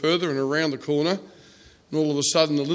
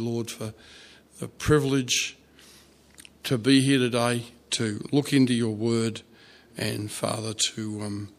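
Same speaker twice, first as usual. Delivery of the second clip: prayer. Real, not acted. Leads closing prayer.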